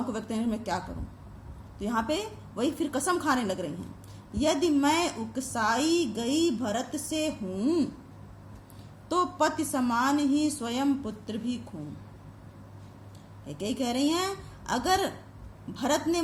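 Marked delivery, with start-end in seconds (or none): 4.3-11.9 slow, drawn-out verse reading; measured, deliberate poetic line; poem recitation. Acted. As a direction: recite the verse slowly, stretching the syllables. Recites the poem being taught.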